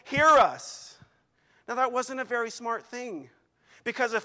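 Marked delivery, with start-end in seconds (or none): 0.0-1.0 frantic crying out. Retold or imitated. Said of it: "jumping up and down on it, saying".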